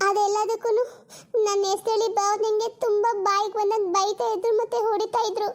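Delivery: crying confession. Acted. Pregnant sister confessing, crying.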